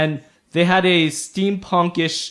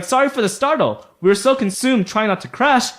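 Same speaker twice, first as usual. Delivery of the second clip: higher-pitched gnome apology; lightly voiced gnome; apologetic gnome; 5 semitones higher, 4 dB louder than usual. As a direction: explain yourself hurriedly to strangers. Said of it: "And he's like".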